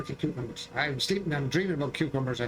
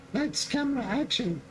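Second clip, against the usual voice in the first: film director call; 9 semitones higher than usual. Pretend. Announcing film start.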